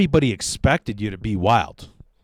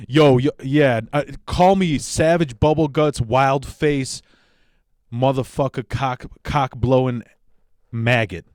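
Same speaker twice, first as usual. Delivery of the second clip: mock hype rapper. Mocking douchey rapper persona.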